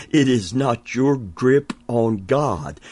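"It is not your grip on God" stressed again; emphatic repeat. Shown as a demonstration. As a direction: restate it firmly. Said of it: "I want to say that again".

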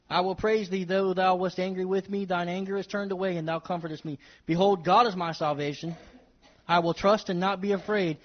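solemn Bible reading; scripture reading. Acted. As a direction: read the verse with reverence. Reads scripture aloud.

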